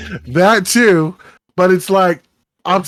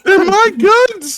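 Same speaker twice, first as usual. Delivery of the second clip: very high, loud, drawn-out whine; prepubescent boy voice; 5 dB louder, slower than usual. Pretend. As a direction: squeal it like an outraged little boy. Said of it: "his prepubescent boy's coming out".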